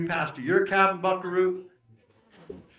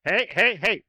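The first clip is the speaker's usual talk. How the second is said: secret weapon call; 4 dB louder than usual. Shown as a demonstration. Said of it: "I'm gonna use my secret weapon".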